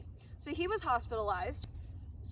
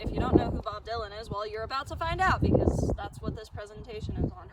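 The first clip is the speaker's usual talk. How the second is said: loud, fast, raised over gusts; shouting over wind; 6 dB louder than usual. Real, not acted. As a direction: project hard so wind can't drown you. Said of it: "Hopefully you can hear me over the wind".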